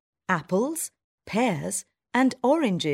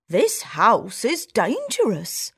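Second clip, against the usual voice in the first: slow, lightly voiced worried mouse; a mild hint of fear; country mouse voice; 3 semitones higher than usual. Country mouse warning her friend, slow and a bit uneasy. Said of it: "says the country mouse".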